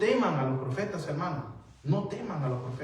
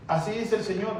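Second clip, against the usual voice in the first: higher, imitated prophet's proclamation; mock prophetic announcement; 6 semitones higher than usual. Preacher mimics a prophet claiming a bride, high-pitched proclamation. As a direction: announce it as a self-styled prophet would.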